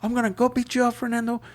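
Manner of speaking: hammed-up threat; mock cussing. Caller cussing out Fernando over the phone, mock rant. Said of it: "Just cussing me out".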